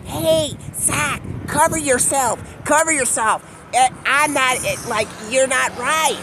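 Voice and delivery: a miniature creature fussing at Zach; tiny creature voice. Acted.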